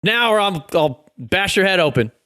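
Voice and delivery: scary threat. Acted. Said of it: "use your scary voice".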